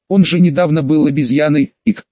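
tipsy, hiccuping; drunk with hiccups. Acted. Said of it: "пьяно икнула Люси".

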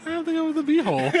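high, fast laughing words. Real, not acted. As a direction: laugh through the verdict. Laughing at the winning line.

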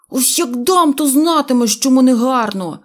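a loud, cross warning; grumbling threat. A narrator's reading. Neznaiko threatens Pistriavenkyi, grumbling loudly. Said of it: "бурчав Незнайко".

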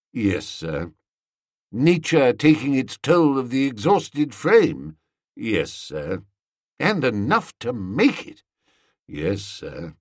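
a lightly voiced Jeeves, deferential and dry. Jeeves answers Bertie.

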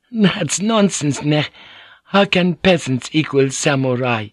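dismissive samurai wife speaking sharply; Fujiko's voice. Acted.

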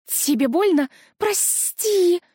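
sharp high cry of sorry; frightened apology. A narrator's reading. Scared ghost apologizes to fallen girl, alarmed. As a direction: blurt it out in alarm.

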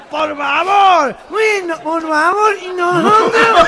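high nasal gangoso pleading; imitated cleft-palate speech, consonants swallowed. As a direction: stretch it out through the nose. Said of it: "que a los gangosos".

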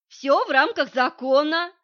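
breezy loud reassurance. Acted. Masha waves off Vitalik's warning, breezy loud call. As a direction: brush off the warning loudly.

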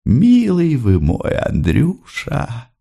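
mother pouring out her affection; tender outpouring. Acted. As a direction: open your heart, stretching each word. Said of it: "заговорила она так, как будто у неё открылось сердце".

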